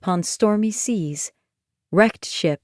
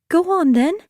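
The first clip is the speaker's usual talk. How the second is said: Ione daring; 9 semitones higher than usual. Acted. Ione dares the nightmare.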